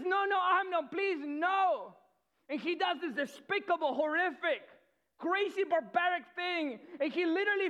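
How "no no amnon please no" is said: higher, louder frightened begging; desperate plea. Retold or imitated. Tamar begging Amnon to stop, higher louder plea. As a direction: cry out for him to stop. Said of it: "She says".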